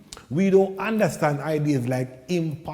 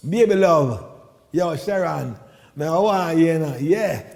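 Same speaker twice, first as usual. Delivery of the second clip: chat-up lyrics. Retold or imitated. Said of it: "We call it lyrics".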